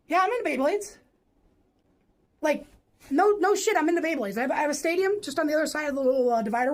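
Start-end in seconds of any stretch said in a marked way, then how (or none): none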